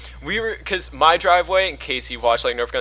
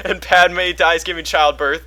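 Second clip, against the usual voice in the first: gleeful spoiler rush; 3 semitones higher, 7 dB louder than usual. Retold or imitated. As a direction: blurt out every twist at once. Gleefully blurting out Star Wars spoilers.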